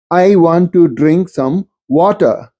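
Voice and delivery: water with the final R left silent; Indian English, R dropped. Shown as a demonstration. Lecturer shows the British-like Indian English version of water, R not pronounced. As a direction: slowly, drop the R at the end of water. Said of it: "the post-vocalic R not pronounced".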